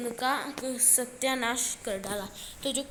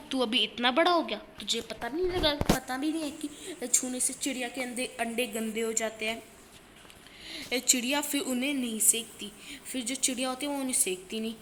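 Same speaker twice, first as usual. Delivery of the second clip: scolding mother; 4 dB louder than usual. Acted. Mother scolds Keshav over the eggs.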